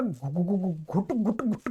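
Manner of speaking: lightly imitated stuck, stuttered syllables; mock garbled muttering. Shown as a demonstration. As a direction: stumble low on repeated choked syllables. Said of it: "घुट होती रहेगी".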